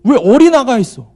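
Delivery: put-on loud, high-pitched yelling of an elderly church lady; scolding shout. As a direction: shout to jolt someone out of a daze. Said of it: "소리소리를 지르면서".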